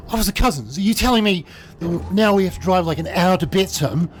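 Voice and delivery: high, pleading disbelief; alarmed protest. Retold or imitated. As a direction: push back in shock, pitch way up. Sarah objects in alarm.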